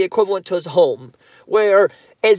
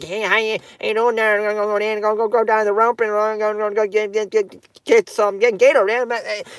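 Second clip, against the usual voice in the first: put-on softer, garbled Cajun accent with stuttered "go, go, go"; 3 dB quieter than usual. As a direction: lightly mimic a mumbling Cajun giving directions. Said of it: "they speak between a French and Creole".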